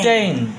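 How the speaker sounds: টেন said alone as the second syllable; টেন as a separate teaching chunk; split into syllables. Shown as a demonstration. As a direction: sound out টেন by itself. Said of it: "আমরা একটা দুই ভাগ করলাম".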